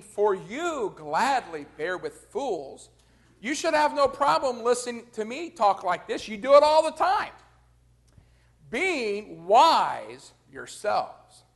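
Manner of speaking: Paul's biting mockery of the Corinthians; sarcastic. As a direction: lay the irony on thick. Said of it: "is very sarcastic".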